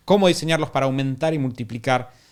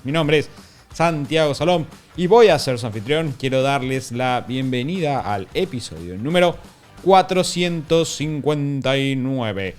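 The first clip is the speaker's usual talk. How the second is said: hoarse sick voice; raspy from a cold; smoker's rasp. Real, not acted. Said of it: "con tu nueva voz".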